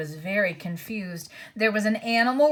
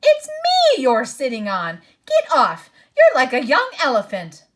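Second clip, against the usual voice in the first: louder, furious squashed complaint; angry dwarf; 4 semitones higher, 8 dB louder than usual. A narrator's reading. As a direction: shout at the boy sitting on him. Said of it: "came an angry voice".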